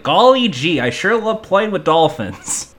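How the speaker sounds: goofy wholesome hero. Retold or imitated. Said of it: "was like".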